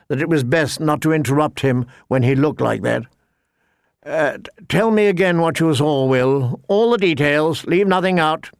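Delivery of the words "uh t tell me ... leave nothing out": lightly voiced knight, somewhat higher pitch; a hint of an aristocratic officer demanding a report; lordly young knight. Young lord orders his scout to report, lightly voiced knight.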